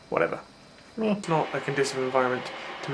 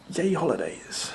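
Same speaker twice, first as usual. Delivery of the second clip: sarcastic cheer; slower than usual. Pretend. Sarcastic cheer about studying.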